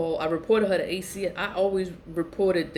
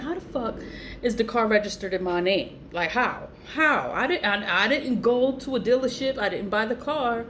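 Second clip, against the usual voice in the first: outraged disbelief; 4 semitones higher than usual. Retold or imitated. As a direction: demand answers in disbelief.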